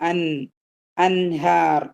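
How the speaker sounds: അൻഹാർ with a distinct, unhidden n; clearly pronounced n. Shown as a demonstration. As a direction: sound the ൻ fully in അൻഹാർ before h. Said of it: "നൂനിനെ pronounce ചെയ്യുക".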